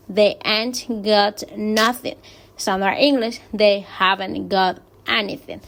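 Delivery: careful, halting read in accented English; reading aloud. Shown as a demonstration. Teacher reading a definition to students, deliberate read-aloud. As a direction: read it out deliberately, word group by word group. Voy a leer.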